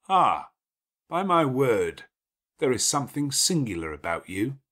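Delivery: a lordly host giving orders at ease; gruff master of the house. Acted. Rochester surprised by answer.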